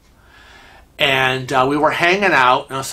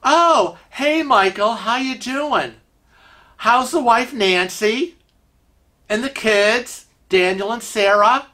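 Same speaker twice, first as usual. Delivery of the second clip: higher-pitched friendly small talk; chummy greeting; 5 semitones higher than usual. Acted. Kevin shows he remembers a client's family, chummy. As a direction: reel off the names with easy familiarity, pitched up. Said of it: "And Kevin's like".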